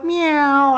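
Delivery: lightly voiced cat meow; imitated cat meow. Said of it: "I go".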